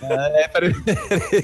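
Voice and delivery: choking and laughing; coughing words out after choking. Real, not acted. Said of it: "que eu engasguei".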